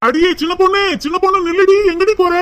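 calling after a sister who is storming off. Acted. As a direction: shout after someone walking away.

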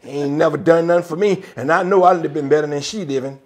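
sore complaint. Retold or imitated. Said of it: "all sore like a toad frog".

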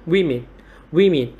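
WOMEN stressed on "WIH", falling on "min"; first-syllable stress. Shown as a demonstration. Teacher modelling word stress, WOMEN as "WIH-min", stress first. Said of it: "Trọng âm rơi vào âm tiết thứ nhất".

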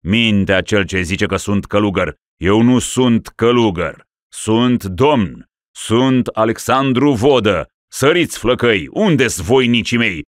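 raging rant. Acted. Raving ruler orders slaughter.

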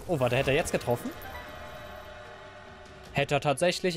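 ordinary delivery

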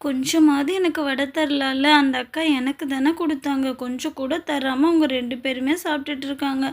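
soft, forlorn self-pity; wistful complaint. Acted. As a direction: grumble sadly to yourself, left out. Child left out, complains to self.

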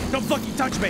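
mock mad drunk. Imitating drunk dad slapping a hand away, mock mad. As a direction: play the drunk dad snapping when woken. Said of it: "like, gets mad".

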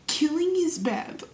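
slow, understated scolding; stern talk. Acted. Sal lecturing a little girl, mildly stern. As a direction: lay it down slowly, mildly stern. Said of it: "give her a stern talk and say".

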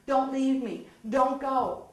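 mildly acted pleading, no real sobbing; retold tearful begging. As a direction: imitate begging someone not to leave. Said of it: "I'm crying and begging".

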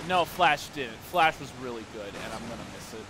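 ordinary talk

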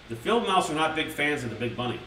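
lightly voiced children's story narration; storybook reading. A narrator's reading. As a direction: read it like a bedtime book. Reads storybook to chat.

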